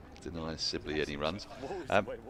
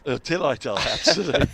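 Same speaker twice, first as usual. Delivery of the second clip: laughing out loud; 7 semitones higher, 11 dB louder than usual. Real, not acted. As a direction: laugh through the word. Laughing at the sponsor's team name.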